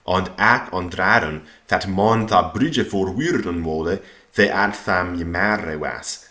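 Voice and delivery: put-on careful, measured reading in Old English; Old English recitation. Shown as a demonstration. Teacher reading about the frightened Persians, Old English recitation. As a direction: recite the old passage phrase by phrase.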